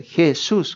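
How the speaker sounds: "Jesús" with the U stressed; accent on the last syllable of "Jesús"; stress on final syllable. Shown as a demonstration. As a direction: say "Jesús", leaning on the final "sús". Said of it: "con acento en la U".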